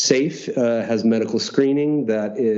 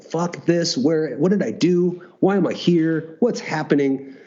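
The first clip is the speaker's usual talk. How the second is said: retold exasperation; 6 semitones higher, slower than usual. Recounting his vision of the cup, mildly mad. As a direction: replay being pissed off without shouting. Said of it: "I'm mad. I'm like".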